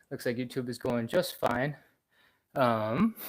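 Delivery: talking while out of breath; breathing hard between words; heavy breathing. Real, not acted. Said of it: "sorry, I'm breathing hard".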